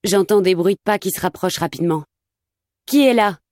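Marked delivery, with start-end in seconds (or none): 2.9-3.4 high, startled and uneasy; frightened call. Acted. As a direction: call out into the dark, scared. Blindfolded, hears footsteps approaching.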